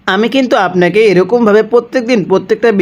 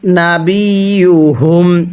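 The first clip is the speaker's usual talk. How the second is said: drawn-out chanted recitation; slow Quran recitation; slower than usual. Shown as a demonstration. Teacher recites for students to copy, slow chant. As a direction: stretch the vowels and hum the nasal. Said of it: "পড়ুন".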